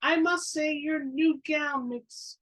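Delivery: commanding voice. Acted. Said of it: "speaking in a voice loud enough to command attention".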